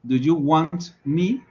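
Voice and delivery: "want" said "wan", T dropped before "me"; silent T in want. Shown as a demonstration. Teacher showing the class, "want" with silent T. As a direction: swallow the T of "want". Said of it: "esa T no se pronuncia".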